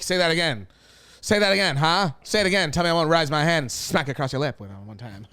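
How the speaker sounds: mock tough husband. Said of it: "So you'd be like".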